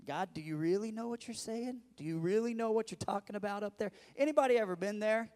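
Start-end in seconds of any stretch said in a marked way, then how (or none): 0.1-3.9 raised, incredulous plea to God; an old man asking God if he means it; Abraham pleading with God. Acted. Preacher voicing Abraham doubting God, incredulous.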